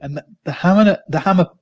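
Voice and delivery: lightly put-on Kiwi accent, a questioning quote; attempted Kiwi accent. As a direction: have a shaky go at a Kiwi accent. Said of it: "God, my accent's".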